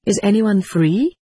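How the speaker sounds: called across a big room; calling out. A narrator's reading. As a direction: call out to the far desks. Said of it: "the girl stood up and called".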